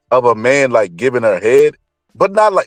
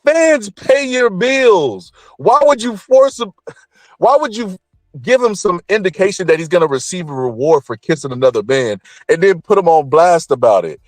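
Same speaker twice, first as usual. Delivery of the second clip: outraged disbelief; 8 semitones higher than usual. Retold or imitated. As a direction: scold her like she betrayed a fan. Outraged reaction to Remy.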